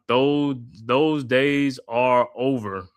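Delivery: lightly voiced Samuel L. Jackson, drawn out; a mild imitation of Samuel L. Jackson; Samuel L. Jackson impression. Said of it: "in the voice of Samuel L. Jackson".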